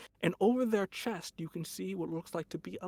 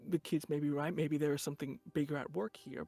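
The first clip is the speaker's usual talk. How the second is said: lightly voiced general. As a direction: testify like a weary general. General's testimony voice.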